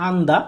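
"আন্দা" as an-da, two joined syllables; demonstrated Korean pronunciation. Shown as a demonstration. Teacher giving the Korean word's sound in Bengali, demonstrated "আন্দা". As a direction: say "আন্দা" as an, then da. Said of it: "এই Korean শব্দটির বাংলা উচ্চারণ হচ্ছে".

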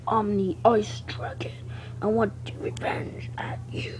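creepy whispered dragon threat. Acted. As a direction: whisper it like a sneaky monster. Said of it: "that's look like a creepy voice".

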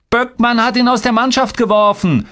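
put-on very high singing taunt of a small boy; high-pitched kid's sneer; jeering. A narrator's reading. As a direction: crow it out high and gleeful. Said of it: "höhnte Tolga".

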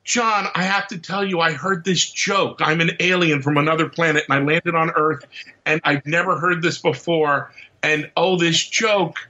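lightly voiced alien; a hint of an alien visitor. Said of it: "my alien voice".

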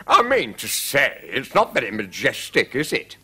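a hint of kingly reproach; mildly disapproving king, lifting at the question; lightly voiced king. A narrator's reading. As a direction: gently query it as the king.

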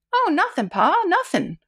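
high, frightened little voice; whimpering. Acted. Scared daughter answers her shouting father, whimpering high. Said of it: "whimpered the girl".

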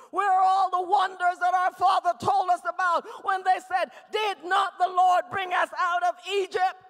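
preached protest, pressing each complaint; arguing with God. Acted. Gideon demanding answers from the Lord, loudly arguing. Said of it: "Gideon began to argue with God".

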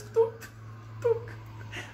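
short, separate thunks with pauses between; imitated thunks. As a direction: mimic an elevator ticking past floors. Imitates elevator passing the floors.

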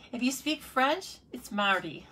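French word in an amateur French accent; attempted French accent. Shown as a demonstration. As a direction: say "mardi" with a rough French accent. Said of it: "sorry for the accent".

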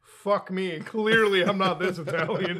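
slow, lightly voiced New York tough guy; a hint of a mock Joe Pesci, slowed right down; playful half-hearted gangster drawl; Joe Pesci impression. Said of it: "he'd be like".

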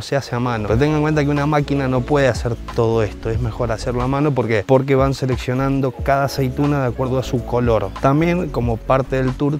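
muffled behind cloth mask; speaking into valved mask; through a face mask. Real, not acted. Seen 4: Black valved mask covers mouth and nose throughout; reference frames unmasked.

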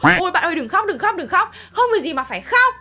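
mock crying. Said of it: "cái bạn này bắt đầu khóc".

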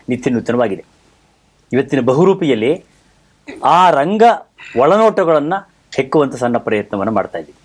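measured presenter delivery with deliberate pauses; formal host introduction. Acted. Host opens a programme on stage traditions, formal presenter delivery. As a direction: lift each opening phrase, then let it settle down.

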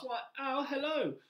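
high-pitched mouse voice; little mouse. Acted. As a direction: answer as a polite, squeaky little mouse. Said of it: "said the mouse".

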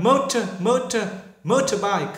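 British "motor" with a crisp t; British accent. Shown as a demonstration. Teacher repeats the British accent for students. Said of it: "người Anh".

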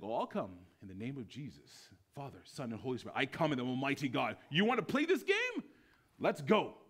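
rising to a loud, high battle cry; bold challenge. Retold or imitated. Preacher voicing a challenger, building to a shout. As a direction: dare them to play the game.

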